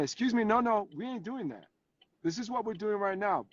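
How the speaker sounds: put-on firm teacher putting a kid in place; no-nonsense "excuse me, no"; calling them out. Teacher on Zoom calling out an inattentive kid, firmly. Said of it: "she called them all out".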